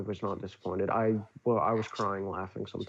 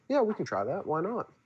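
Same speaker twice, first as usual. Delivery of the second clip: higher, easygoing director voice; light high imitation of director; 9 semitones higher than usual. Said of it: "And he goes".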